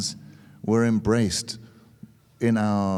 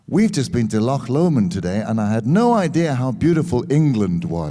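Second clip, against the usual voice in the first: loud tourist remark; 4 dB louder than usual. Retold or imitated. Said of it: "I happened to say in a loud voice".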